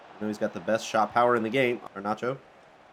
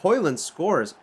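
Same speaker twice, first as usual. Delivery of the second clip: excited; 6 semitones higher, 4 dB louder than usual. Real, not acted. Naming the goal scorer.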